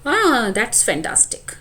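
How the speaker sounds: drawn-out "Ah, that's fantastic"; slow delighted exclamation. Shown as a demonstration. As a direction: savour it, very slow. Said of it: "exclamation". (धीमे, खिंचे सुर में खुशी)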